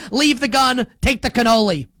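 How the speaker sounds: lightly imitated Italian-American mobster accent; a hint of a Godfather Italian accent, deadpan; Clemenza Italian accent. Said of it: "in his French accent instead of an Italian accent like Clemenza".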